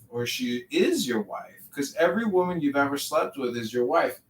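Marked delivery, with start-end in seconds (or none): 0.1-1.5 IS punched with a jump in pitch; stress on IS. Retold or imitated. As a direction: lean hard on the word "is" to correct it. Corrects ex-wife to current wife.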